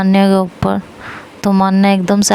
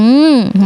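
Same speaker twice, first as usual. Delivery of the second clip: muffled hum; 3 semitones higher, much slower than usual. Retold or imitated. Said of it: "मैं उसे इशारा करती हूँ".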